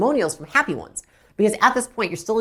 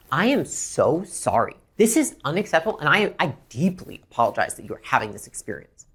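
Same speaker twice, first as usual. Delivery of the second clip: acted heartfelt apology; apologizing; 3 semitones lower than usual. Shown as a demonstration. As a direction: plead sincerely for forgiveness. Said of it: "Apologize for the issue".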